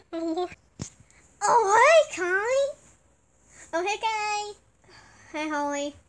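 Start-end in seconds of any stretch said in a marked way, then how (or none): 1.4-2.8 a loud, bright greeting imitating Holly; Holly voice impression. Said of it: "Holly voice impression time". 3.7-5.4 a slow, drawn-out "Oh, hey, Kai" imitating Holly; slow Holly impression. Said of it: "Holly voice impression time".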